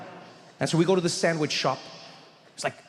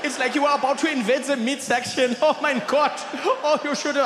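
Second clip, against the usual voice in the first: higher, giggly teasing; amused German friend; 8 semitones higher than usual. Retold or imitated. Friend teasing him on the ride home, amused. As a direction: tease him while still laughing. Rolf still laughing.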